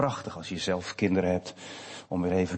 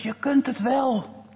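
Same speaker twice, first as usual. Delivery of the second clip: sister calling up; slower than usual. Retold or imitated. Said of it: "riep zijn zus".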